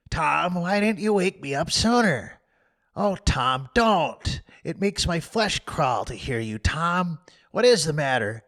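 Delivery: put-on frightened boy. Sid scared at Tom's groans, pleading. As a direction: beg him to answer.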